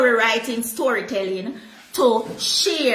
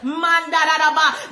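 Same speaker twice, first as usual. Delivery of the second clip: fervent tongues burst; a quick burst of worship tongues; speaking in tongues. Real, not acted. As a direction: ecstatic tongues mid-sermon. Praying in tongues while preaching.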